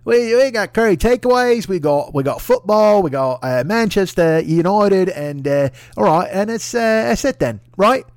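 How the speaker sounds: high, loud, pompous Boris voice; mock English bluster. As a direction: puff up like a proud prime minister sealing the borders. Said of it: "he's like".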